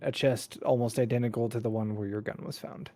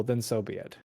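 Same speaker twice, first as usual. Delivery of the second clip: quiet resignation; 4 dB quieter than usual. Acted. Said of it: "She shrugs and says".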